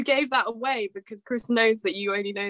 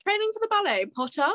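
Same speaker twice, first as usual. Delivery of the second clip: quick, lightly put-on schoolboy taunt; mock villain taunt; 9 semitones higher, faster than usual. Host copies a player's villain impression, light mock taunt. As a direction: echo the rival's jibe, higher and fast.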